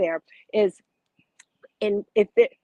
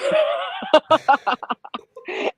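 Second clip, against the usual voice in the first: embarrassed laugh; 7 semitones higher, 6 dB louder than usual. Real, not acted. Host laughs at herself.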